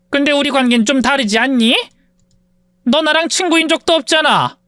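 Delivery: lightly voiced sneering rich woman; haughty rich woman. Rich woman taunts her former maid, mildly sneering. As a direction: look down on her with a lazy sneer.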